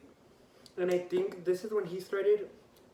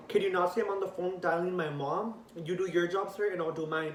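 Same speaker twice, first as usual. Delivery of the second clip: retold sassy outburst, a touch louder; popped off; 3 semitones higher, 5 dB louder than usual. Teen to cop while dialing mom, popping off. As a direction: snap back at the officer, mildly heated. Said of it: "this is when I popped off".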